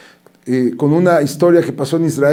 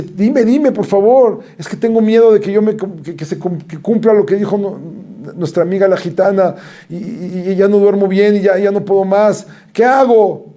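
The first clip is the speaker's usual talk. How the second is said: scared pleading; 5 semitones higher than usual. Retold or imitated. Frightened girl begging her friend.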